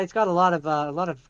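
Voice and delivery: strained, tired voice from talking; losing voice. Real, not acted. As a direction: voice giving out after long talk. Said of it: "I'm losing my voice from all the talking".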